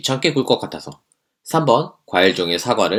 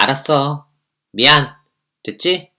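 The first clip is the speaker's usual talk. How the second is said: careless apology; 6 semitones higher, 3 dB louder, slower than usual. Acted. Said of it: "그게 사과냐?".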